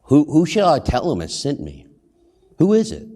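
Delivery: an unsure Moses pleading for a name; rising, uneasy voice of a reluctant prophet; nervous Moses. Retold or imitated. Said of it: "again, like".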